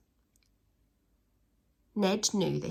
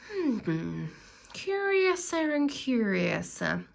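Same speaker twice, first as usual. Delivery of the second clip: muttered to himself; 4 semitones higher, slower than usual. A narrator's reading. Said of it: "he muttered to himself".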